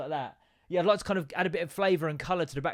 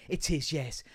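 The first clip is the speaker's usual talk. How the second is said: posh phone voice. Retold or imitated. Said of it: "overdo it when she's on the phone".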